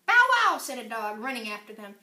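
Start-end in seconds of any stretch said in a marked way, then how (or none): 0.1-0.6 loud, high barking; dog bark. Acted.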